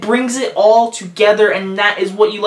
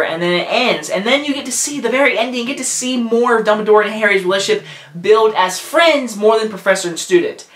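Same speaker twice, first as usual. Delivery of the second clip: ordinary delivery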